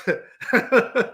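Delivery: a real burst of laughter at something absurd; helpless laugh. Real, not acted. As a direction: laugh out loud, unable to hold it in. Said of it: "I can't stop laughing".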